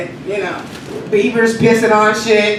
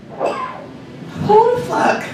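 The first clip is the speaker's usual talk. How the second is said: whispered outrage; 14 semitones higher, 4 dB quieter, much slower than usual. Acted. Comic outrage aside.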